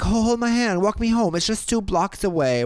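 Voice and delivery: high pleading imitation of a pushy stranger; mock drunk stranger. Friend mimics the drunk stranger begging, in a high whiny voice. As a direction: ham up his whiny demand.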